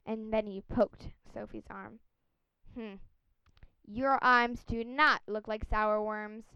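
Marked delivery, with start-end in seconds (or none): 2.7-6.4 london policeman. Acted. Policeman inspects her arm.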